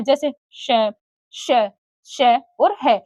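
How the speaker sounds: श, श, श slow and hissed; teacher drawing out each श for the class; sounding out sibilants. Shown as a demonstration. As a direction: hiss out each श slowly, one by one. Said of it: "इनका उच्चारण होता है".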